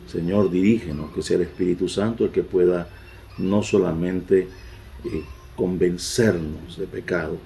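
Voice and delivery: oración pausada y reverente. Real, not acted. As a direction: ora con recogimiento ante la congregación. Pastor dirige oración. (el pastor ora por la congregación con reverencia)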